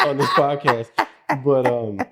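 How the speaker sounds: big high laugh spilling into the words; laughing at himself. Real, not acted. Host laughing that he just told podcast listeners. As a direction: chuckle at having overshared.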